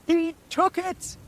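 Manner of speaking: high, loud, slow witch wail; high slow anguished crone wail; wailing hag. Acted. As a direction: wail the loss to the sky. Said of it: "she wailed".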